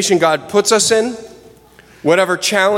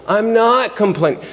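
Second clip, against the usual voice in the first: put-on whiny child; 4 semitones higher than usual. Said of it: "do you hear your voice".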